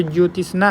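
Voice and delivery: "ज्योतिषना" with an extra i after the t; misspelt reading. Shown as a demonstration. Teacher reading another spelling option, misspelt reading. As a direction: read "ज्योतिषना" as jyo-ti-sna. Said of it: "वर्तनी की दृष्टि से कौन सा शब्द सही है".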